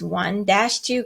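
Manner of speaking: slow, even count; teacher slowly counting one dash two; counting the beats. Shown as a demonstration. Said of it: "you count it again".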